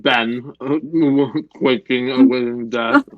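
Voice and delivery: talking through a mouthful of sandwich; words round a big bite; mouth full. Real, not acted. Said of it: "don't talk with your mouth full".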